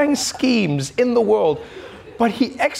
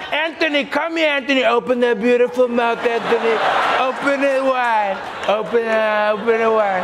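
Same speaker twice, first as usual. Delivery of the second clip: lightly voiced Trump, higher; a hint of Trump; Trump impression; 3 semitones higher than usual. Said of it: "Trump was like".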